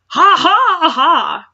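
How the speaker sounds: slow, high, loud evil cackle; hammed-up villain laugh. Reading the fanfic villain's gloating, hammed-up slow laugh. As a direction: stretch out a cartoon villain's laugh. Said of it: "she gleamed".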